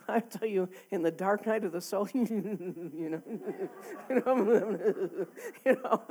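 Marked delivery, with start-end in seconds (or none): 2.1-6.0 laughing through the words; real chuckles breaking up a phrase. Real, not acted. Preacher laughing at her own dark memory, laughing through it.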